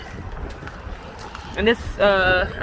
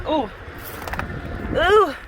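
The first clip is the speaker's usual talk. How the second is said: impressed ooh; 6 semitones higher than usual. Real, not acted. Impressed by the Impala interior.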